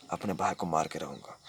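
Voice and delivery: low, quiet threat; menacing vow. Acted. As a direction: drop the voice low and swear it. Vows to kill his brother. (धीमी, भारी आवाज़ में धमकी)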